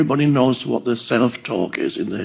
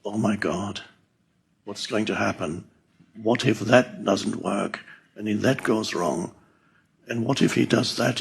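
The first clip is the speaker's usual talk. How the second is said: low, hushed, anxious murmur; worrying; 4 semitones lower, 8 dB quieter than usual. Acted. Lying awake at night worrying, quiet anxious self-talk. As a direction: fret softly under your breath, mock-anxious. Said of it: "start worrying".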